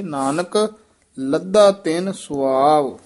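ਨਾਨਕ rising, short break before ਲੱਦਾ; brief pause. Shown as a demonstration. Teacher modelling the verse, brief pause after ਨਾਨਕ. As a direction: hold a small gap after ਨਾਨਕ. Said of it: "ਨਾਨਕ ਤੇ ਯਮਕ ਲਾ ਦਿਓ".

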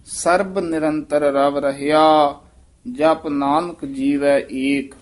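slow, ਸਰਬ with the b clearly sounded; careful model line. Shown as a demonstration. Teacher models the full line for the student, slow. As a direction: recite slowly, every letter clear. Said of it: "ਬੱਬੇ ਨਾਲ ਉਚਾਰਨ ਕਰਨਾ ਹੈ".

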